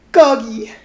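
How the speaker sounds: put-on very high, loud toddler squeal; a delighted toddler shrieking at the dog; loud cry. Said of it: "He gave a loud cry of".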